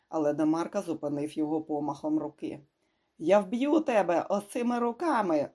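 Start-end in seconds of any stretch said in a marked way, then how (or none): 3.2-5.5 raised, higher-pitched angry threat; bellowed threat. A narrator's reading. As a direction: bellow it as a furious threat, in a narrator's measured way. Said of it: "гаркнув він". (гнівно гаркнути погрозу)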